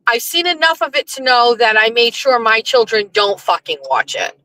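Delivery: usual speaking voice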